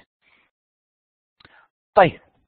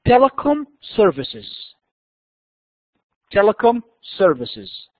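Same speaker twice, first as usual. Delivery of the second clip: slow dictation; 3 semitones higher, much slower than usual. Shown as a demonstration. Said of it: "number one".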